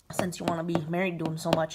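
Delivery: fast, whispered sarcastic jab. Retold or imitated. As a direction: hiss it quickly as a snide aside. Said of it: "And then he's all like".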